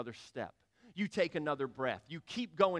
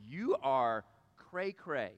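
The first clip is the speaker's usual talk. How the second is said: 1 incredulous; 4 semitones lower, slower than usual. Retold or imitated. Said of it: "people are looking at you going".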